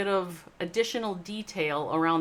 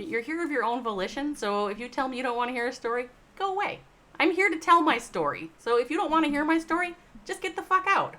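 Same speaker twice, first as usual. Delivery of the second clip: heated rant; 6 semitones higher than usual. Real, not acted. Heated rant telling listeners to leave.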